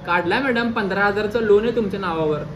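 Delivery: usual speaking voice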